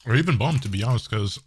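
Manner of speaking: talking while eating; words round a bite of food; mouth full. Real, not acted. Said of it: "I was eating while I was letting".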